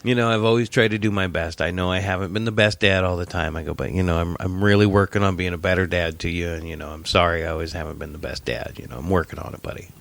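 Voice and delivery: sincere dad. Retold or imitated. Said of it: "cool dad, dad kid moment".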